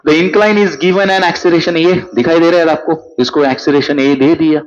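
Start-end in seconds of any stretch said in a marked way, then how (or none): 0.1-1.8 slow dictation reading. Acted. Reading question aloud slowly.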